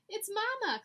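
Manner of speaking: high, loud shocked cry. Acted. Hansel recognising her mother in the pen, shocked cry. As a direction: gasp out the discovery. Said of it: "cried Hansel in shock".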